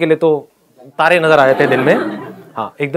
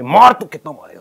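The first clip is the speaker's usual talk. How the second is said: loud defiance; 5 dB louder than usual. Retold or imitated. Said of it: "बहुत ज़्यादा एक loud voice में".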